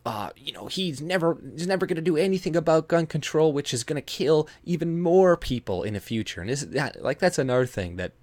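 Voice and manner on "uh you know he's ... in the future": high mock whine about guns, a little fast; mocking the left. Vlogger mimicking liberals on gun control, in a high mock whine. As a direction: parody a critic, pitched up and whiny. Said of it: "they're like".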